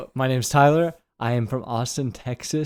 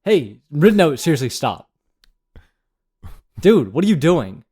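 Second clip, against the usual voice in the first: lightly acted scolding, a bit louder; audition read; 3 semitones higher, 4 dB louder than usual. Reading a scene for his audition, mild scolding. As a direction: warn him off, half earnest. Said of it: "so I'll just start".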